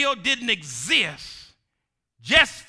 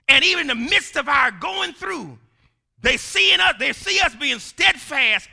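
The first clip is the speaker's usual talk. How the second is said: high, loud, rising sermon climax; building sermon fervor; full-force preaching; 6 semitones higher, 4 dB louder than usual. Acted. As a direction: preach it up to a shout.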